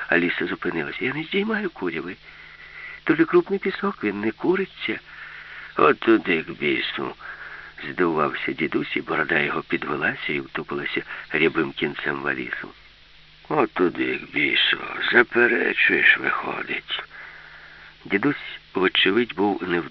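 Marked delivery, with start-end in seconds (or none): 1.1-5.0 lightly voiced little girl, higher; a hint of a girl defending herself; young girl answering. 5.8-7.2 put-on low old man's grumble, falling off; a touch of cranky old man; grumbling grandpa. Grumpy grandpa retorts. 13.5-17.0 put-on low, drawn-out old man's grumble; lightly voiced cranky old man; grumbling grandpa. Grumpy grandpa retorts.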